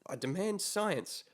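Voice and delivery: put-on outraged old lady. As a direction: demand it like an indignant granny. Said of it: "your outraged old lady voice".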